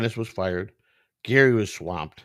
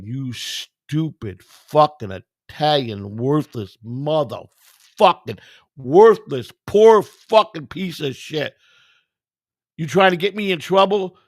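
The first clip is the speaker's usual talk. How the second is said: slow, drawn-out tirade, building louder and higher; retold cussing out; 5 semitones higher, 7 dB louder, slower than usual. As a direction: spit out each insult slowly, then blow up. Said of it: "he starts cussing me out".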